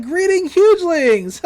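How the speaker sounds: high, loud, drawn-out character hail; hammed-up greeting. Franz walks up to the captive's rescuers, hammed-up greeting. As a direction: make a big mock-grand entrance. Villain's entrance greeting in retold story.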